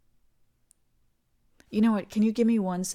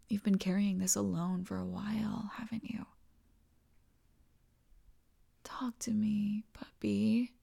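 soft whisper; 3 dB quieter than usual. Acted. Partner urging a worried lover to talk, whisper. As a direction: hush and coax her to open up. Comforting anxious partner, hushed.

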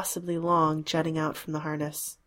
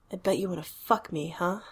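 coy. Acted. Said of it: "I sound coy".

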